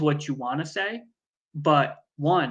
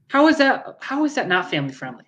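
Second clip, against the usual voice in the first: incredulous; 6 semitones higher, 5 dB louder than usual. Real, not acted. Indignant disbelief at cohost.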